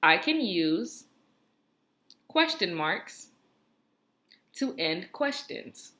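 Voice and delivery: slow, word by word for the class to echo; slow dictation. Shown as a demonstration. Teacher to class, slow echo-back pacing. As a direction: say it slowly in chunks so kids can repeat. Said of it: "So repeat after me".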